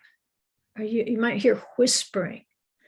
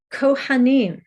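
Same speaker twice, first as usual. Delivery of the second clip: mild cantor's call, pitched higher; 4 semitones higher, 4 dB louder than usual. Shown as a demonstration. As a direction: call "Kohanim" out lightly to the congregation. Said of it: "He will call out the word".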